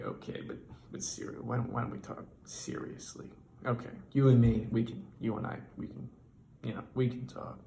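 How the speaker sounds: soft, voiceless, leaning in; conspiratorial whisper. Retold or imitated. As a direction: whisper like you're sharing a secret. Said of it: "they're like".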